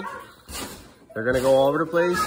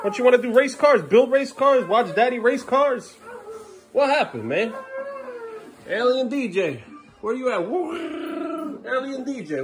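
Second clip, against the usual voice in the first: much higher, sing-song pleading; 11 semitones higher, slower than usual. Real, not acted. Dad coaxing his son to build race cars, high sing-song.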